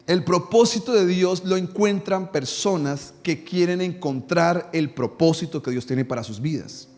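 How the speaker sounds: "propósito" and "quieren" said slowly and deliberately, each word weighed; slow it down and lean on every word so it sinks in; slow emphatic repeat. Shown as a demonstration. Preacher repeats the point slowly so the congregation understands. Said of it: "No sé si me está haciendo entender".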